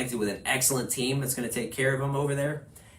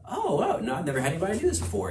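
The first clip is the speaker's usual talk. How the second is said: mock surprise; 5 semitones higher, faster than usual. Surprised neighbour answering the door.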